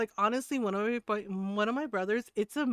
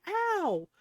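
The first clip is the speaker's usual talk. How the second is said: hurt brother; 12 semitones higher, 3 dB louder than usual. Retold or imitated. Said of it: "and he's like".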